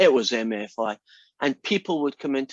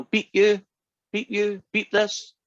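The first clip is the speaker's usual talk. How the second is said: put-on higher, cheeky little girl voice; gleeful toddler; 8 semitones higher, slower than usual. Toddler greeting visitors with swear words, higher gleeful voice. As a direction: chant it like a naughty three-year-old.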